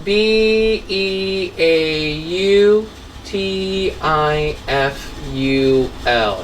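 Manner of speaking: letter by letter, slow, for a class; slow dictation of letters; slow spelling out. Shown as a demonstration. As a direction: spell each letter out slowly. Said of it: "So beautiful".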